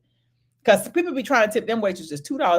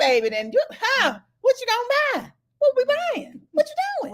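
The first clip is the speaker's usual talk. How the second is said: rising higher and higher in disbelief; incredulous retort; 13 semitones higher than usual. Retold or imitated. Woman to cheap date, rising incredulous questions. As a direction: climb in pitch, baffled.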